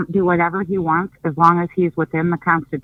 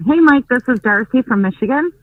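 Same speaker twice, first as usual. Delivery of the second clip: louder repeat; 3 semitones higher, 4 dB louder than usual. Real, not acted. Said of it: "Say that again, please".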